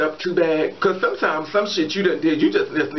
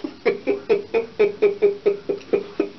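long staccato giggle; helpless laughing; 3 semitones higher than usual. Real, not acted. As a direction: crack up and keep going. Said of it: "I'm laughing".

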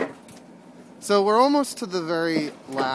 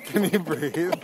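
laughing. Real, not acted. Laughing while squashed on coaster.

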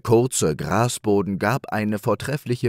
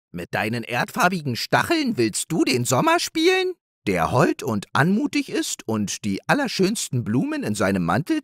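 higher, mocking hare voice; scornful hare; 4 semitones higher than usual. Hare ridiculing the hedgehog's wish, lightly scornful. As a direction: scoff at the idea.

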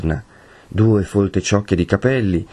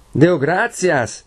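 lento, più acuto, ben scandito; a voce chiara; 9 semitones higher, much slower than usual. Acted. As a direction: annuncia forte e chiaro alla porta. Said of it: "disse Tonio a voce chiara". (Tonio che si annuncia a don Abbondio a voce chiara)

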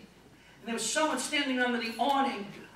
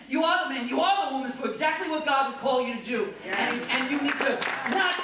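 fervent preaching; 3 semitones higher than usual. Acted. Preaching at full force.

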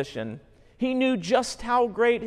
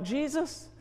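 pleading criminal. Acted. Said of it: "The criminal cries out".

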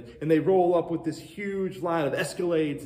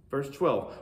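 usual speaking voice

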